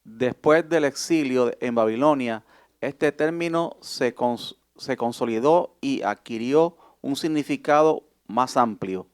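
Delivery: even read-aloud of a study text. Shown as a demonstration. A student reads the lesson text aloud to the class, in a measured reading voice. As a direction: read the passage steadily for the class. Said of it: "¿Alguien que me lea esto?".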